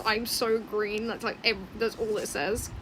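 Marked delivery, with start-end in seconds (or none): 0.0-1.0 slightly slowed I'm so green; a lighter repeat of the green line; quoting the green one. Retold or imitated. Telling viewers its only line, slightly slowed. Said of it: "That's all it says is".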